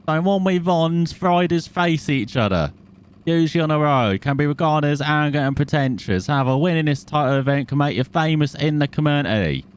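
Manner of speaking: mock announcement of event info; put-on read-out. Reads on-screen event text aloud.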